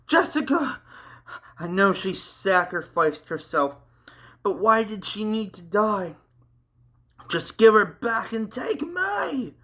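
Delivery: high, crying plea; yelling in grief. A narrator's reading. Matt grieving for Jessica, high crying plea. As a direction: beg through tears for her back. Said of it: "yelled Matt".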